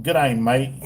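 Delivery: lightly attempted Aussie greeting; put-on Australian twang; mimicked Australian accent. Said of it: "how much I try to mimic her accent".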